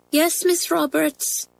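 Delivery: high, slow, small schoolgirl voice; meek. A narrator's reading. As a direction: answer the teacher meekly and dutifully. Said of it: "said Pat meekly".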